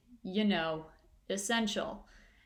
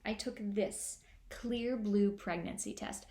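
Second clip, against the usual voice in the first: mock ad woman; 4 dB quieter, slower than usual. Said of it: "she just goes".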